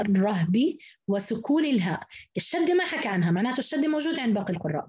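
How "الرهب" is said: الرهب as ar-rahbi, a after the ra; open ra, silent ha. Shown as a demonstration. Teacher showing Hafs's reading, open ra. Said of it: "انفرد حفص بفتح الراء".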